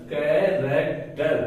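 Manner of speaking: slow, split into three beats in "कैरेक्टर"; syllable by syllable. Shown as a demonstration. Teacher sounding out a word for learners, syllable by syllable. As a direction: say "कैरेक्टर" slowly, one syllable at a time. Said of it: "R A C रैट".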